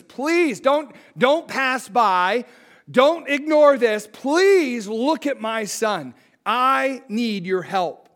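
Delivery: a father's urgent plea, the words stretched out slowly; a father begging Jesus to look at his son, pleading; desperate pleading. Retold or imitated. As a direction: beg him not to pass by. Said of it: "It's a, a pleading".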